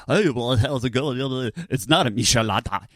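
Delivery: a light take on a beer commercial announcer; Dodger announcer voice. Retold or imitated. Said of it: "pretty good Dodger announcer voice".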